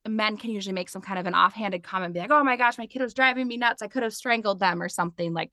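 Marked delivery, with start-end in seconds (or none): 2.3-4.8 flippant dad joke. Retold or imitated. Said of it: "totally just flippant".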